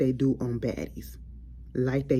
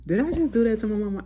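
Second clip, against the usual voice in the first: shocked aside; 7 semitones higher, 3 dB louder, faster than usual. Real, not acted. Shocked at own joke.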